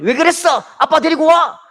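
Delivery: loud, high scolding; teacher scolding a pupil. Retold or imitated. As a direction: bark like an angry teacher.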